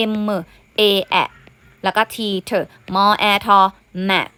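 "M A แอะ", each letter sound set apart, then "mat"; teacher's phonics demo of "mat". Shown as a demonstration. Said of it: "มาทบทวนเสียงอ่านนิดนึงนะคะ".

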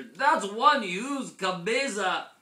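loud, high and stretched out; amazed exclamation. A narrator's reading. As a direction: exclaim at an astonishing size. Kitten exclaims at his head.

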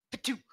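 spitting sand. Acted. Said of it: "I spit the sand".

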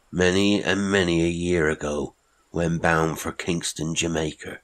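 a hint of a strange old sailor, measured; old marooned seaman, distant and odd; lightly voiced old castaway.

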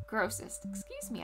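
talking through hiccups; hiccuping mid-sentence. Real, not acted. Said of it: "I have the hiccups now".

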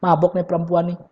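low, scornful voice of the priest; Eli accusing. Acted. Eli judging Hana at prayer, low scornful accusation. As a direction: dismiss her as a drunk woman. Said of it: "Eli bilang".

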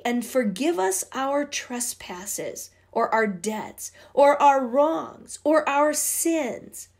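very slow, rising prayer recital; slow recitation. Acted. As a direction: recite each word slowly.

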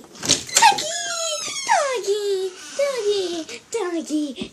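high, loud excited call; calling the dog. Real, not acted. Child to doggy, calling out.

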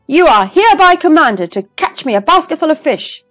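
loud, high decree; royal command. A narrator's reading. King commands the stranger before the crowd, loud and high. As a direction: proclaim it to the crowd loudly.

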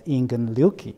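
"Ingen Ryuki" said as a Japanese name; Japanese pronunciation. Shown as a demonstration. Host explains the monk's name in Japanese, Japanese pronunciation. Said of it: "in Japanese will be pronounced as".

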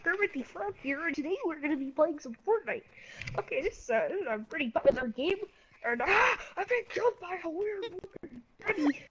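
lightly voiced frog puppet; a hint of a high puppet voice; Kermit the Frog voice. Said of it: "advertising my channel into Kermit the Frog Voice".

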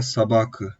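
"sabakı" with the first O said as a full A; akanye, O as A. Shown as a demonstration. Teacher shows students "sabakı" with the O as A. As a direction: model "sabakı", unstressed O turned into A. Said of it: "A şeklinde okunmuş".

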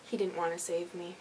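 soft, low mock disappointment; sulky mutter. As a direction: sigh it out, mock-wounded. Sulky aside after scolding dog.

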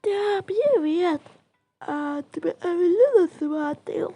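put-on childlike greeting. Two doll girls meet.

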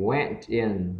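"went" said short and soft; quick WENT. Shown as a demonstration. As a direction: make "went" brief before "in". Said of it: "chúng ta đọc rất là nhanh". ("went" đọc ngắn, nhanh)

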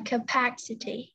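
"capacity" with PA stressed; stress on second syllable. Shown as a demonstration. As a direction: lean on PA in "capacity". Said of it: "âm thứ hai này". (nhấn trọng âm vào PA trong "capacity")

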